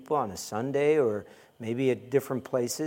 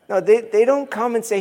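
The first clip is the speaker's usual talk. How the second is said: loud, high exclamation; loud excited protest, pitched high; exclaimed; 9 semitones higher, 10 dB louder than usual. Real, not acted. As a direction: burst out in protest. Exclaimed over laughter.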